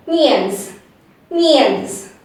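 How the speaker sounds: "Nians" said as "nyans", N and Y run together; blended N-Y sound. Shown as a demonstration. Teacher drills the second half of onions, blended N-Y. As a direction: say "Nians" as one "nyanz" syllable. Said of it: "intermix N and Y sound".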